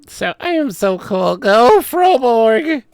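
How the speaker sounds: high, swelling, drawn-out boast; mock cool-guy voice. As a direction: imitate a preening show-off. Mocking the cool-guy impression.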